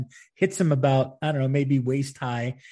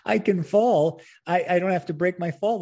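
high-pitched imitation of his calling out; mock yell; 4 semitones higher than usual. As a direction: mildly imitate him yelling, pitched up. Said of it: "he's yelling at me".

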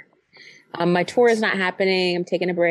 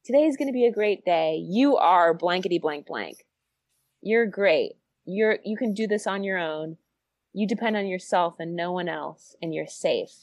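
gentler self-talk; 2 semitones lower, 3 dB quieter than usual. Pretend. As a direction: gently affirm yourself, settling down quietly. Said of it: "it needs to be gentler".

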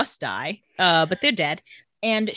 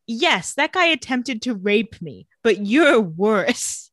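slow, drawn-out mock scorn from Vicky; lightly voiced girl, stretching out but you're worse; mock offended girl; slower than usual. Vicky snubbing Jeremy, slow and drawn-out. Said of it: "a girl's like".

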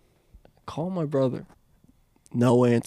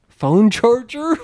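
mock plea; 8 semitones higher, slower than usual. Mock eager plea for charger.

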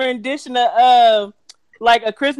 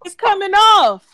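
mock amazement; 4 semitones higher, slower than usual. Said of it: "she was amazed".

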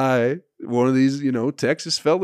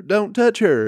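higher and louder, panicky imitated yell; mock frantic yell; 10 semitones higher, 6 dB louder, slower than usual. Protest friends yelling at the auction guy, louder mock panic. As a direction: push the plea up into a shrill-ish mock shout. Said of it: "her other fucking friends start go".

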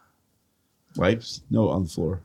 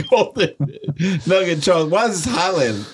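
put-on Southern accent; 6 semitones higher than usual. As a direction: read the fine print in a Southern accent, half-laughing. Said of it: "How'd you turn Southern?".

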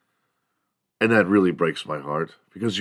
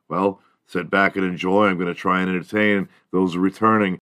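usual speaking voice

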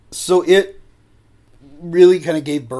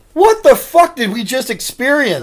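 stunned disbelief; 10 semitones higher, 8 dB louder than usual. Retold or imitated. Friends stunned after drive-thru.

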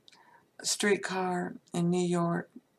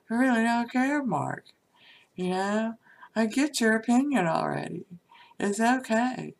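exasperated brush-off; 4 semitones higher, 4 dB louder than usual. Acted. Exasperated quote to Mark.

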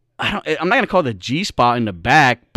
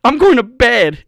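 higher, louder mock annoyance; retold pissed-off; 6 semitones higher, 5 dB louder than usual. She refuses his advances after farting, mock pissed off. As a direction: imitate her huffy announcement. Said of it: "She's all pissed off".

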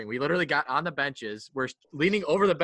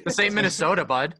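mocking chirp; 4 semitones higher, 6 dB louder than usual. Teasing a chirp.

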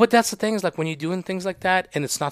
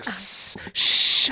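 hiss and hush; 6 semitones higher than usual. Retold or imitated. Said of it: "the snake is hissing".

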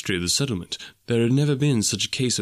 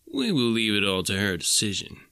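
smirking. Acted. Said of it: "smirking at his own reflection".

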